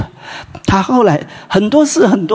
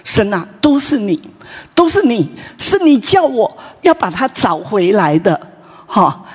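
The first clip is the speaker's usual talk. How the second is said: complaining to God; 6 semitones higher than usual. Retold or imitated. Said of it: "他就跟神哭闹".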